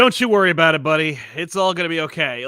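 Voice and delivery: lightly voiced jolly comforter, loud at the start; a hint of hammed-up buddy comfort; mock reassurance. Professor X's last look to Wolverine, mock-reassuring.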